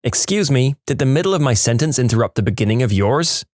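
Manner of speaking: put-on snappy kid talking back to his teacher; sassy little boy. Preschool boy sassing his co-teacher, a light cheeky child voice. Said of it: "the little boy replies".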